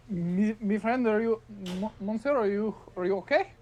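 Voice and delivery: put-on light French accent, worried; a lightly put-on French accent asking if he is okay; mock French accent. Half-elf character in French accent.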